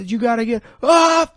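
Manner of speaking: high, loud shouted plea; mock shout. Retelling a 911 call from the tower, high loud shout. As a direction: yell it like a trapped caller.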